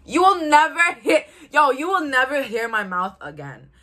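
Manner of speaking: mock indignant retort. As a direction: act out a loud, offended comeback. Acted indignant retort to boyfriend.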